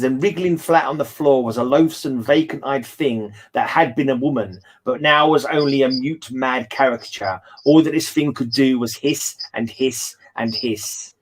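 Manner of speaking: slow, deliberate reading aloud; slow dramatic reading of a horror passage; story reading. A narrator's reading. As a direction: read it out slowly for the others.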